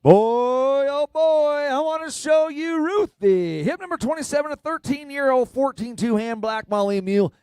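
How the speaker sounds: high, thrilled announcement; excited. Real, not acted. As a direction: burst in with delight to show her off. Presenter thrilled to introduce mule.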